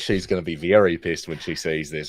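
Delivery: badly faked Aussie accent; her accent. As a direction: talk on in a broken Aussie twang. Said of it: "the only fucking Aussie accent that I can do".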